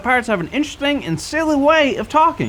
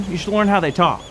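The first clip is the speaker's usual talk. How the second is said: ordinary talk, nothing marked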